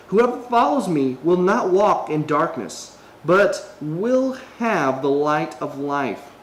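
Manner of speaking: slow, measured Bible reading to the viewers; scripture reading. Acted. Pastor reading scripture to his viewers, slow and measured. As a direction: read the verses slowly and deliberately.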